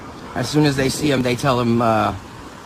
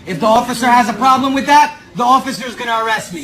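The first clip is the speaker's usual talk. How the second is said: loud defiant reply to the manager; talking loud; 4 dB louder than usual. Real, not acted. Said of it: "I talk loud".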